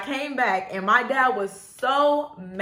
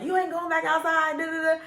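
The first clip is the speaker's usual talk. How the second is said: lightly voiced mom, higher pitch; higher-pitched mock scolding, trailing into filler; objecting mom; 7 semitones higher than usual. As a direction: imitate a mother laying down the law. Retelling mom forbidding going outside.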